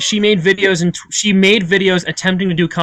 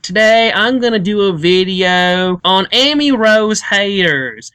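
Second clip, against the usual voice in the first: dull commentator impression; 5 semitones higher, slower than usual. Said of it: "this is what he sounds like".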